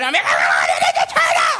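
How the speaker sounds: acted-out tantrum wail, swinging up and down. Retelling pitching a fit as a child: acting out a childhood tantrum. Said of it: "I'd start like pitching a fit".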